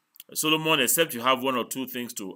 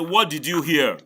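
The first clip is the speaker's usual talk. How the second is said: higher, louder repeated question; insistent demand; 4 semitones higher, 5 dB louder than usual. Real, not acted. Teacher demanding student repeat what he heard, insistent. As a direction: press hard for an answer.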